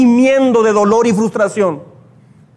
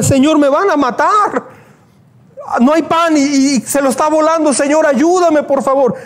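mock tearful plea; 4 semitones higher than usual. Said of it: "empezó a llorar, bien frustrado".

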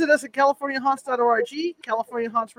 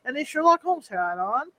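louder, punchy announcer delivery; 4 dB louder than usual. Acted. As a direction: announce it like a hype host. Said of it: "Do it".

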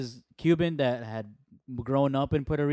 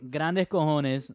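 put-on American accent Spanish; much slower than usual. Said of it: "Kiko Alonso said".

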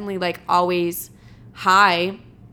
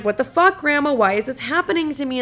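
raised, higher pleading at grandma; mock tearful complaint; 6 semitones higher than usual. Complaining to grandma about her bad luck, mock tearful and raised. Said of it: "sometimes I'm, like, crying".

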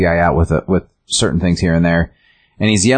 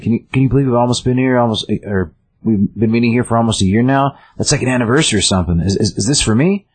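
higher and fast, an eager, overfriendly man; crazy guy; 5 semitones higher, faster than usual. Retold or imitated. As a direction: rattle it off like a clingy oddball. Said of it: "the kind of the crazy guy".

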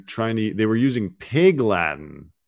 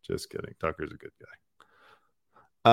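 whispering; 5 semitones lower, 6 dB quieter, slower than usual. Real, not acted. Sarcastic aside after joke.

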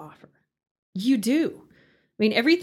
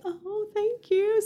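touched gratitude; 10 semitones higher, much slower than usual. Retold or imitated. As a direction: coo it slowly, as if reliving the kind offer. Acting out grateful reply to friend.

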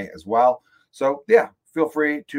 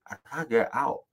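picking at teeth; 2 semitones higher, 4 dB quieter, faster than usual. Real, not acted. Host digging chips from molars, mouth obstructed. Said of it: "I'm gonna pick at it".

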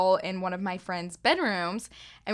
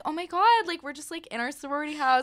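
mock ditzy girl; 6 semitones higher, faster than usual.

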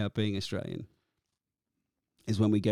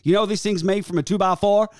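menacing retort; 8 semitones higher, 7 dB louder than usual. Retold or imitated. Big musician threatening heckler.

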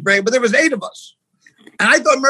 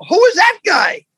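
higher, louder incredulous question; loud mock bafflement; 8 semitones higher, 5 dB louder, slower than usual. Caller asks about the guy yelling, loud mock bafflement. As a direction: blurt it out in mock disbelief.

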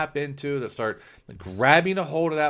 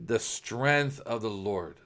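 slow, steady faith declaration; calm declaration; 3 semitones lower, slower than usual. Pretend. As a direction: say it slowly, with settled trust. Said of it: "no, you will say".

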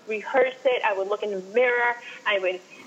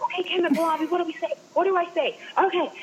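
anxious; 7 semitones higher, faster than usual. Retold or imitated. Nervously asking friends for lines.

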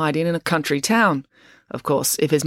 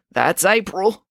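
wheezed; 4 semitones higher, slower than usual. Acted. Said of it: "wheezed Finn".

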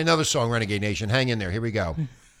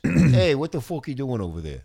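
mob voice. Pretend. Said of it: "I can do a mob voice".

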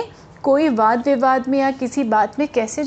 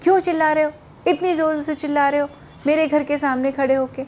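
irritated; 3 semitones higher, faster than usual. Retold or imitated. Sleepy woman scolding the woodseller, mild annoyance. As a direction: snap lightly at the noisy seller. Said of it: "बड़ी झुंझलाहट में".

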